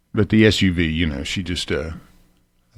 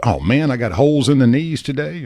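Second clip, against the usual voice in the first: mildly dismayed quote, higher pitch; mock dismay; 5 semitones higher than usual. Jeans wearer finding a worn-out pair, mock dismay. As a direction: act out a small letdown, pitch lifted.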